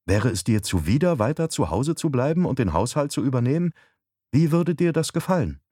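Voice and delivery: a hint of a coaxing wife; wife, persuasive. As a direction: make the offer as the wife. Narrator voices wife proposing.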